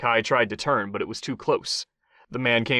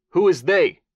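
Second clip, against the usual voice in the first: higher, louder sharp demand; 7 semitones higher, 8 dB louder than usual. A narrator's reading. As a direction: demand it forcefully. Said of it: "Kai demanded".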